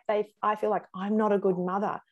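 usual speaking voice

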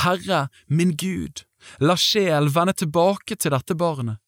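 high, slow, pleading cry of "Herre min Gud"; crying out to God. Acted. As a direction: call out to the Lord, begging for the child's life. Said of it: "ropte til Herren og sa". (høyt, langsomt bønnerop til Gud)

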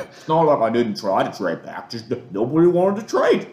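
mocking a GM's Massachusetts accent, high and flustered; Gettleman Massachusetts accent. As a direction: whine it out in a heavy Massachusetts accent. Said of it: "in his thick Massachusetts accent".

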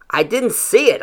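defensive outburst. A narrator's reading. Son answering angry father, defensive and loud. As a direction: throw the excuse back at him.

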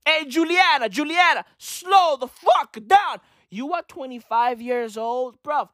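calling out. Retold or imitated. Calling out to the heckler.

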